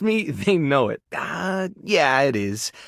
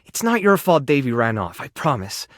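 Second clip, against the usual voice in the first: reassuring; 5 semitones lower than usual. Acted. Comforting the pet about Davy.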